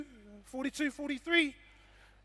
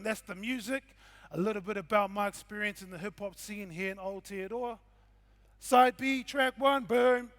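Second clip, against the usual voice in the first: DJ announcer. Acted. Announcing tracks like a DJ.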